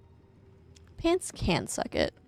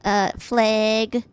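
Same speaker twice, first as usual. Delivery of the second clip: Midwest accent; 4 dB louder, much slower than usual. Shown as a demonstration. Streamer showing chat how they say things, Midwest accent. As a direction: demo "Beg" and "flag" with Midwestern vowels. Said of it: "I'm from the Midwest, though".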